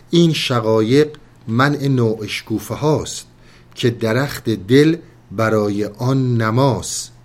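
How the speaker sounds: reciting Rumi's verses slowly; poem recitation. Acted. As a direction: chant the couplets with weight.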